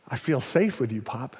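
soft, low and trusting; hushed, touched retelling of a child's words; tender. Retold or imitated. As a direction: quietly imitate a grandchild's heartfelt confiding.

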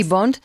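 "Bond" ending in a hard T; final T sound. Shown as a demonstration. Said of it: "con T".

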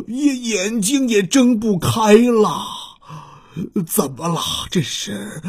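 a lightly voiced injured dinosaur, crying weakly; hurt T-rex. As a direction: groan through the pain, slow and broken. (受伤的霸王龙，带着哭腔)

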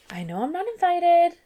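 squeaky, loud put-on girl voice; high mock heroine voice. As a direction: play the left-out girl, whiny. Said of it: "So she's like".

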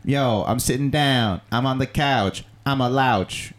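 slow, easygoing early rapper impression; lay-back, drawn-out rapper cadence. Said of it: "When he started out, he was like".

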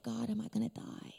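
hushed, breathy plea to God; frightened whisper. Retold or imitated. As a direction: whisper it as if about to die. Retelling a frightened prayer, breathless whisper.

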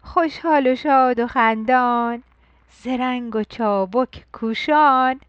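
put-on rhythmic, sing-song poem reading to children; bright nursery rhyme for the first school day; poem recital.

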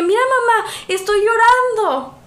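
put-on a small girl showing mom her tears, high and slow; proud little girl. Recalling telling her mother as a child, high and slow. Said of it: "le dije".

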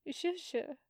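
softly, barely above a breath; quiet. Acted. Nephew says it quietly to his uncle. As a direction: say it gently, hushed. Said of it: "he says, quiet".

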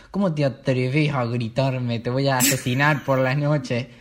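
slow, half-joking menace; mock menacing threat. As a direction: threaten darkly, tongue in cheek. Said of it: "de rabia". (amenaza burlona, lenta)

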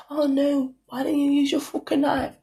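imitated gentle high correction; caring, discreet. Friend discreetly correcting her at lunch, caring. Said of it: "caring way".

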